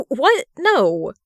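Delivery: sharp, loud, high "What? No!"; shocked outcry from a sick man; loud protest. Acted. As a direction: burst out in refusal, loud and high. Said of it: "he tries to insist".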